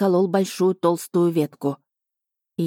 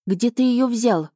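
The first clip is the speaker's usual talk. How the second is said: higher, slow astonished question; amazed question; 5 semitones higher, slower than usual. A narrator's reading. Heroine asks dragon about the fish, amazed. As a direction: ask in drawn-out wonder.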